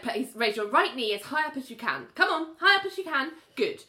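no-nonsense run of instructions; straightforward, businesslike therapist; matter-of-fact. Retold or imitated. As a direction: direct the patient plainly and briskly. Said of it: "she's just very matter of fact".

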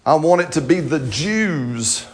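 drawn-out mock complaint to God; hammed-up, dragged-out protest; struggling plea. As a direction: plead slowly, imitating a reluctant believer. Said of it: "he had this real struggle with".

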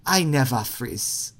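the quote said slowly in a Wakanda accent; "I never freeze" in a Wakanda accent, slow and deliberate. Shown as a demonstration. Quizmaster giving a hint to the players, in a Wakanda accent. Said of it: "but with an accent".

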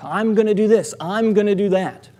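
mild mock boasting; lightly hammed-up announcing; big talk. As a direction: toss out empty boasts. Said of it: "filling your day with big talk".

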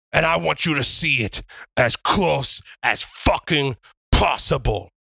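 deliberate ring promo with long pauses; wrestler's promo. Acted. Wrestler calls out Mitchy Richie before the crowd, promo delivery. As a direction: address the arena, phrase by phrase.

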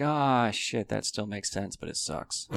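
sinking from a grumble into a whisper; glum letdown. Retold or imitated. Realising it worked against you, a glum fading mutter. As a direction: let it deflate to a whispered sigh. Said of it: "and you're like".

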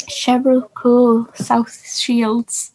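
slow, badly faked Newcastle accent; attempted Geordie accent. Copying contestant's accent trick, shaky-attempt Geordie accent. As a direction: have a poor go at Geordie. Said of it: "I can't do a Geordie accent".

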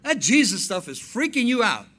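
1 brother annoyed. Retold or imitated. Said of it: "He says".

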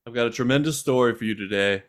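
lightly voiced Trump rally speech, hint of an impression; a mild imitation of Trump addressing the folks. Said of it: "in the style of Donald Trump".

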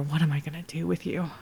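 whisper. Acted. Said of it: "you hear her whisper".

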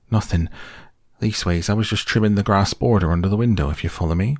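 lightly voiced humble gardener hurrying an excuse; flustered servant Sam. Gardener caught under Gandalf's window, flustered and quick.

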